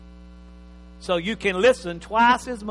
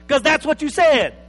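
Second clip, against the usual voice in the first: acted husband; 7 semitones higher, 9 dB louder than usual.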